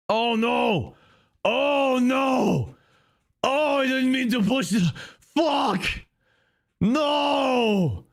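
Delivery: high, frantic yelps of dismay; a hammed-up meltdown in a high voice; panicked shouting. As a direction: shriek like you just ruined everything. Character panics after misclick.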